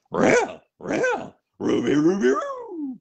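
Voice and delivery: high, loud talking-dog yelps; cartoon dog. Shown as a demonstration. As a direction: yelp it out, sliding up to a howl. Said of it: "switch back and forth with".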